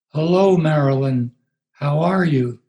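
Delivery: a hint of a sedated woman parroting him; mimicking in medicated voice. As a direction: Marilyn mimicking the pastor's greeting, lightly drugged. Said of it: "in her medicated voice".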